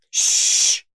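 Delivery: loud unvoiced shush. A narrator's reading. Librarian shushing the detective again, sharp shush. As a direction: hush him sharply. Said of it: "Mildred said".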